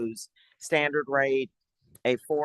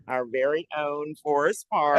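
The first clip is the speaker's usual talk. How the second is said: louder, building proud announcement; proud reveal; 3 semitones higher, 6 dB louder than usual. Real, not acted. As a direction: present the hometown star with pride. Proudly presenting the town's featured man.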